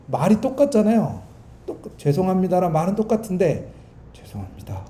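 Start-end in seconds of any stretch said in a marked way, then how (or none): 4.1-4.9 very soft, low, earnest "죄송합니다"; bow your head and say "죄송합니다" gently; sincere apology. Shown as a demonstration. Preacher contrasting a true apology, hushed and sincere. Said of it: "이 말은 신기하게 달라요".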